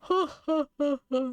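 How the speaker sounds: mock monster belly laugh; hammed-up creature guffaw; bellowing laughter. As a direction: laugh in big separate ha-ha-has. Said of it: "bellowing laughter".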